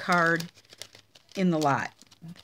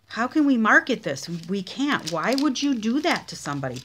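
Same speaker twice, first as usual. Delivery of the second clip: raised, incredulous team reaction; mock-dismayed questioning; exasperated retold protest; 4 semitones higher, 4 dB louder than usual. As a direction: protest it in mild disbelief, higher and louder at first. Team reacts to a bad swap card.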